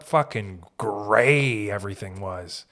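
put-on drawn-out London accent. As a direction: lean into a slow London accent. Mimicking growing up in London.

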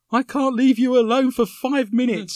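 loud exasperated telling-off; scolding girlfriend. Retold or imitated. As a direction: snap it like an annoyed girlfriend. Girlfriend scolding in retold story.

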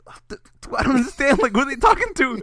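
stammering, winded confusion; imitated breathlessness. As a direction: act puffed out and puzzled. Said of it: "I was so out of breath".

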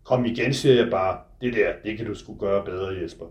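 measured literary reading, close and intimate; novel reading. A narrator's reading. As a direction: author reading his own book aloud. Author reads his novel aloud.

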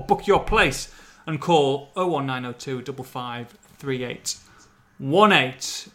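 reading the sponsor message out; a lightly voiced radio ad read; plain sponsor read on a podcast.

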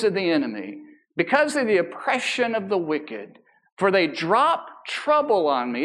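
slow, solemn psalm reading; scripture reading. Acted. Pastor reading Psalm fifty-five to the congregation, slow and solemn. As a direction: read each plea slowly, with reverence.

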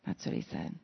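soft unvoiced whisper; whispered aside. Real, not acted. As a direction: breathe it quietly, letting it land. Hushed aside after quote.

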